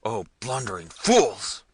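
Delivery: loud, slow exclamation; exasperated prince's outburst; angry cry. A narrator's reading. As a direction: curse the servants, drawn out. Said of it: "cried Manfred".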